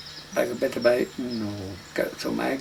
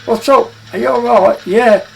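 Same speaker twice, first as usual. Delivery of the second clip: high, loud calls over the clatter of the road; shouting back; 11 semitones higher, 14 dB louder than usual. Retold or imitated. Travellers on rattling wagons shouting to each other, loud calls. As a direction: bellow it so the next wagon hears. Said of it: "you'd shout back and keep shouting".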